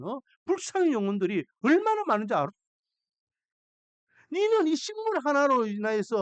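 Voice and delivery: rising ache for lost souls; God's grieving plea. Acted. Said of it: "라고 말씀하시는 거예요". (요나를 타이르는 하나님, 높아지는 안타까운 호소)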